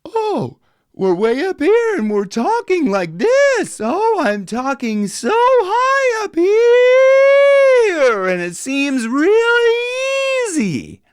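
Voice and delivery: very high, drawn-out yawning voice; high yawn talk. Shown as a demonstration. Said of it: "on a yawn".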